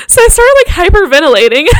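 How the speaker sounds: giggly, high-pitched retelling; laughing. Real, not acted. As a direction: tell it through a rising laugh. Recalling hyperventilating, laughing.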